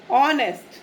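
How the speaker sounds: ऑनेस्ट with no h sound, opening straight on O; silent h. Shown as a demonstration. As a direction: model ऑनेस्ट cleanly, O first. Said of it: "हमारा word बन रहा है ऑनेस्ट". (ऑनेस्ट, एच silent, ओ की sound से)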